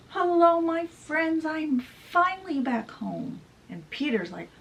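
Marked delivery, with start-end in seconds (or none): 0.1-3.4 put-on high, bright hello to old friends; excited greeting. James greets the Lost Boys, high and glad. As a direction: call out gladly to friends. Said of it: "he's like".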